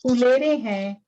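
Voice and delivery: measured, rhythmic verse reading; poetry recitation. Acted. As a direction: recite it line by line, pausing between phrases. Recites own poem at a poetry reading. (कविता पाठ, लय में)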